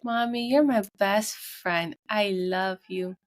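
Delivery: put-on slow, sweet child voice; imitating daughter. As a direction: say it slowly, sweetly, like a little girl at bedtime. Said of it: "she'll be like".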